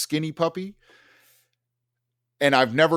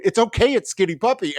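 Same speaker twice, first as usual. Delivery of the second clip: high, lilting mock reassurance; high sing-song it's okay; mock soothing girl; 8 semitones higher than usual. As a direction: soothe him like it's nothing.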